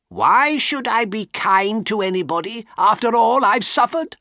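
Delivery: high, loud bitter outcry; angry cry. Acted. Old woman lashing out at the young man, angry cry. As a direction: fling the words back at him in rage. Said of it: "cried Miss Havisham angrily".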